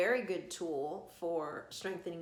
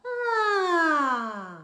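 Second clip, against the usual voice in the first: high loud ah sliding down; falling yawn; 9 semitones higher, 14 dB louder than usual. Shown as a demonstration. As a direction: let the yawn fall. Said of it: "Let it fall".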